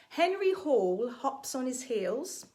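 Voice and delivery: slow, careful tongue twister; said slowly. Shown as a demonstration. Teacher saying a tongue twister slowly for the class to copy. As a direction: spell out every H, slowly. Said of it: "I'll say it slowly".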